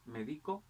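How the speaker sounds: medico said me-DI-co; stress on middle syllable. Shown as a demonstration. Teacher giving accent examples, medico stressed on DI. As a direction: move the weight of medico onto DI. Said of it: "el acento puede variar".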